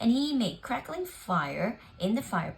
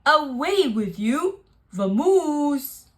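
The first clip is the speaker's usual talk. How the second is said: shooing; 5 semitones higher, 8 dB louder, slower than usual. Acted. Bear chasing mouse away.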